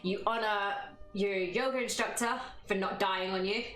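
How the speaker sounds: calm yoga teacher voice, lightly held; yoga instructor close. Acted. Yoga streamer closing practice for viewers, calm. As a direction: guide the bow with gentle calm.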